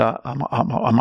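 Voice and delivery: softly stammering over his own words like the cowardly lion; a frightened young man tripping on I'm, held quiet; nervous stammer. Retold or imitated. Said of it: "I felt like the, the cowardly lion".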